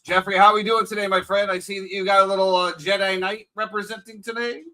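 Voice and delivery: echoey room sound; hollow, echoing mic; cave echo. Real, not acted. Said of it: "It sounds like you're in a cave".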